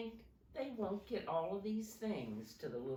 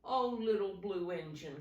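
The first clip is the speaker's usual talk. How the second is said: crying out; 3 semitones higher, 3 dB louder than usual. Acted. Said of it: "cried the dolls and toys".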